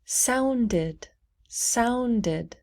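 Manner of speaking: "sounded" in two syllables, ending in "did"; extra syllable. Shown as a demonstration. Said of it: "so we say did".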